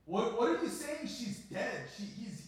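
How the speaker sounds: high, loud, frantic questions; panicked disbelief. Retold or imitated. Pastor frantically questioning the grandmother on the phone, panicked. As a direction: cry out in shock at the news.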